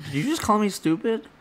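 high-pitched incredulous comeback; retold affronted question, high; mock offended disbelief. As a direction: act taken aback, pitch jumping up. Retold offended reply to insult.

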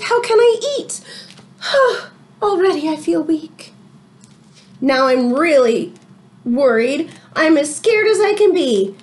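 lively read-aloud to the class; story reading. A narrator's reading. Teacher reading a storybook to her class, lively read-aloud. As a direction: tell it like a picture book to children.

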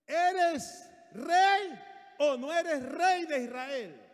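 loud, high, forceful challenge; Jezabel confronting the king. Acted. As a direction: fling it at him, slow and punched. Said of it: "su mujer Jezabel le dijo".

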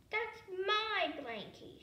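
high, loud firm claim; declaring firmly. A narrator's reading. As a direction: stand your ground and declare it. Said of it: "she declared".

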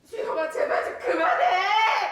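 shouting. Acted. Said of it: "더 크게 부르세요".

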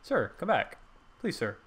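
pleading vendor. Pretend. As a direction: mock-desperate cone seller calling out. Cone seller begging departing customer.

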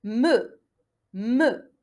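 "Me" as one blended syllable; syllable demonstration. Shown as a demonstration. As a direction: model "Me" with a held French e. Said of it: "على واش تحصلت؟".

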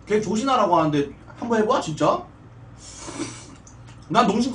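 chewing while talking; words muffled by food; mouth full. Real, not acted. Seen 0: Mukbang streamer keeps eating with chopsticks; mouth busy during speech.

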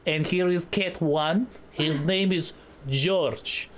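mock Russian accent. Russian character introduces cats.

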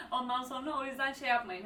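talking through a laugh; amused laughter. Real, not acted. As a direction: carry on advising while still laughing. Laughs at own joke about accents. (gülerek)

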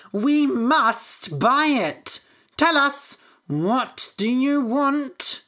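high, loud and drawn-out excitement; eager farmer's wife. A narrator's reading. Farmer's wife begs to buy the magic coat, excited. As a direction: plead excitedly to buy, stretching the words.

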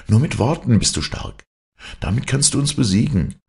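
high, animated taunting; scornful boys. Acted. Boys mock his challenge.

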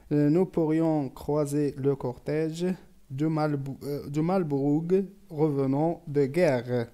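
slow, careful French recitation; poem read aloud. Real, not acted. Teacher reading a poem to pupils, slow and measured. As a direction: read each verse slowly and deliberately for learners.

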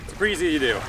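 winded after pumping; catching breath between words. Real, not acted. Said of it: "So catch my breath".

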